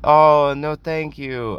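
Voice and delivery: nice, high-pitched polite refusal. Retold or imitated. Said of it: "I said it very nice".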